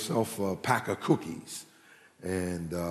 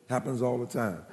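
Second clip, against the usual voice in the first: softer knowing repeat of "Happens all the time"; quiet echo; 6 dB quieter than usual. Shown as a demonstration. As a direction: let it fall away, softer, as an aside.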